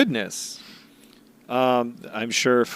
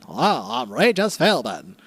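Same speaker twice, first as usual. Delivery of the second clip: Regis Philbin. Retold or imitated. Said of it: "Are you Regis Philbin then?".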